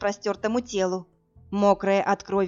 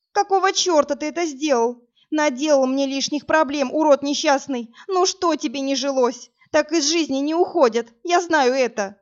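higher, louder tearful scolding; sobbing scolding; 5 semitones higher, 4 dB louder than usual. A narrator's reading. Woman scolding the dying stranger, tearful and angry. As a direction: berate him through tears.

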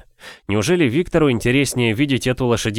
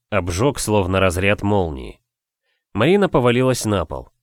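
usual speaking voice

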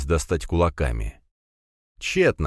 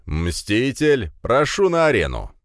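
booming announcer; 5 semitones higher, slower than usual. Acted. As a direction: summon the fighter to the ring. Announcer calls the fighter in. (громогласный ведущий)

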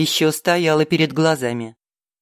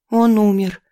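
distressed cry; 5 semitones higher, 4 dB louder than usual. Acted. Girl holds dead bird.

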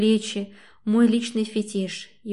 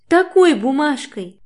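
loud, higher, slow scornful retort; contemptuous snort; 6 semitones higher, 8 dB louder than usual. A narrator's reading. Katya throws his note back at him, scornful shout. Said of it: "презрительно фыркает".

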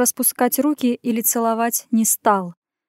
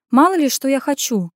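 higher, a mild scoffing huff; snorting retort; 4 semitones higher, 4 dB louder than usual. Acted. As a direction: brush it off with a light snort. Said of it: "фыркнула я".

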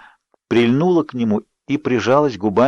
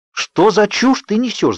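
high, slow, outraged cry; shouting; 10 semitones higher, slower than usual. A narrator's reading. Bella yelling at Edward in disbelief, high and slow. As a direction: cry it out, much higher and drawn out. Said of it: "закричала я".

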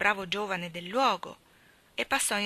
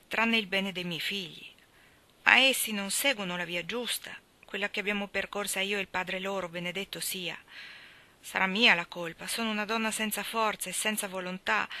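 sorrowful mother. Acted. Mother confiding her guilt to Elia in a hushed, grieving voice.

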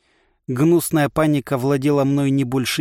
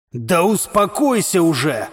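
angry shout; 4 semitones higher, slower than usual. A narrator's reading. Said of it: "зло крикнул мне Борборыч".

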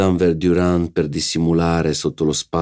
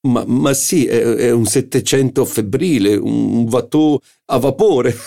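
Schie's witty retort; 6 semitones higher, 4 dB louder than usual. Acted.

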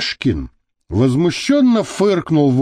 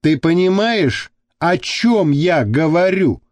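syllable by syllable; 3 semitones higher than usual. Acted. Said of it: "по слогам произнёс Костолом".

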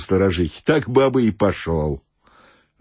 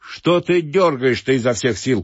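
bath attendant scolding; 5 semitones higher than usual. Acted. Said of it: "кричал банщик".

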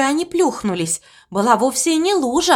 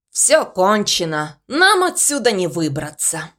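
gloomy; 3 semitones lower than usual. Acted. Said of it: "мрачно заявил Угрюм".

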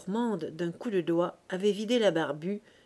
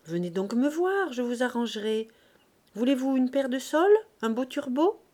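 coaxing fishwife, lilting upward; wheedling sales patter; 4 semitones higher, 3 dB louder than usual. Acted. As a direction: cajole a customer into buying. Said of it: "lui fit des avances, des cajoleries".

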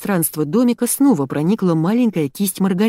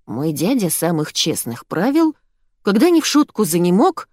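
recitation. Acted. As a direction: recite the verse properly. Narrator recites the poem.

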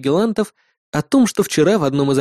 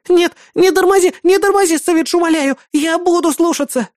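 high, loud frantic pleading; panicked begging; 3 dB louder than usual. Acted. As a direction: beg him not to stop the car. Бисмарк умоляет не тормозить. (панически умоляя, громко и высоко)

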